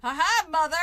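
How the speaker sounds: loud, taunting "ha ha"; mocking laugh. Real, not acted. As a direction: laugh in the mother's face. Mocking laugh at the game mother.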